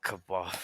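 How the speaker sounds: KEBAB said alone, second syllable stressed, in place of Khabib; echoed mispronunciation. Retold or imitated. Co-host repeating the comedian's wrong name for Khabib, mispronounced as KEBAB. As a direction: echo the botched name as KEBAB, like the food. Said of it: "He calls him kebab".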